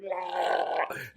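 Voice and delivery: drawn-out open-throat noise; comic wordless gullet sound; imitated open-gullet guzzle. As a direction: mimic a throat opened for chugging. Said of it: "opened up his gullet and was like".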